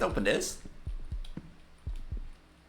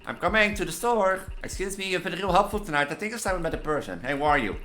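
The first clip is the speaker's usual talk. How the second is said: raised, deliberate acted threats; menacing caller dialogue; 8 semitones higher, 3 dB louder than usual. Angry caller threatens support worker, acted menace. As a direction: act out a tense threatening call.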